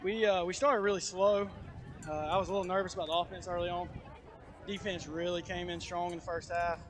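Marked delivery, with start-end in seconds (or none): 2.1-6.8 breathless after running up stairs; panting between words; out of breath. Real, not acted. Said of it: "I'm a little out of breath from running up".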